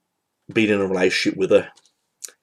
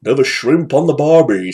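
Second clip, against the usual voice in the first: put-on Australian accent; 3 semitones higher than usual. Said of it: "he knows an, an Austrian accent".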